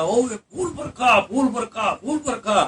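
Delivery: high, loud and slow crowd cry, chanting it thrice; retold shouting. A man in the crowd calls out the miracle, loud excited shout. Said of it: "एक बंदा तो जोर जोर से चिल्ला रहा".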